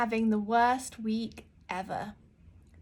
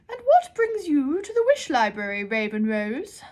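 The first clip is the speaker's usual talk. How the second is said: high, loud bellow, slowing at the end; 5 semitones higher, 8 dB louder than usual. Acted. Librarian bellows her question at the girl. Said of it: "the librarian bellowed".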